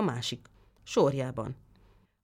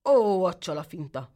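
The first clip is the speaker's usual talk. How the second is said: a touch of fuming anger, a bit louder; 5 dB louder than usual. Acted. The tailor fumes at his deceiving son, mildly angry. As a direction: grumble it in mild exasperation. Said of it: "mérgelődött a szabó".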